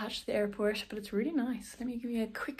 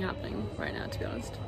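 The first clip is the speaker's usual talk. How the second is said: whispering; 13 semitones lower, 9 dB quieter, faster than usual. Real, not acted. Trailing aside at airport.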